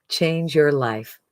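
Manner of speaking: change your life, slow and weighty; slow, emphatic echo of the pitch; slow emphatic repeat. Real, not acted. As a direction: let each word land slowly. Sales pitch, repeated line.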